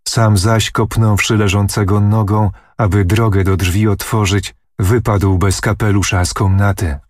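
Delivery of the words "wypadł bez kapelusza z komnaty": usual speaking voice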